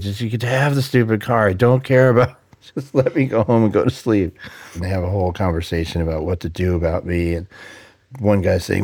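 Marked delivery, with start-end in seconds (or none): 0.0-4.3 mildly exasperated retold plea; a touch of weary annoyance; aggravated and tired. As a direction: plead lightly like you're fed up and want bed. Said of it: "I was so aggravated because I was".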